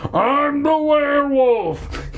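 high, drawn-out manic shriek; crazed shriek. Acted. Hermit chasing the kids, high manic shriek. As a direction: shriek it like a madman. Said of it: "he cried".

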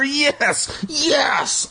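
very high joyful squeal; high, overjoyed yes; happy cry. Acted. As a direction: cry out with relief and joy. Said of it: "I cried happily".

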